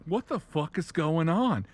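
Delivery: loud, high mock outrage; comic exasperated shout; indignant disbelief. Eldar react in shock.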